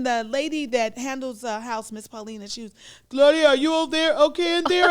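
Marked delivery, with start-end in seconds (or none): 3.1-4.9 loud, high call through a door. Retold or imitated. Acting the housekeeper outside the bathroom, calling in loudly. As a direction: holler a concerned check-in.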